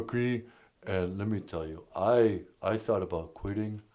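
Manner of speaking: Stallone impression. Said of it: "it's Sylvester Stallone".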